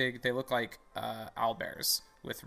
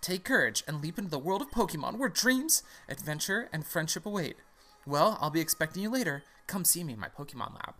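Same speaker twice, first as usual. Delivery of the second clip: high, swooping professor voice; professor character; 6 semitones higher than usual. Acted. Professor sending the player on an adventure, put-on high voice. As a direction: send them off grandly, pitched high. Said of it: "I need a voice for this guy".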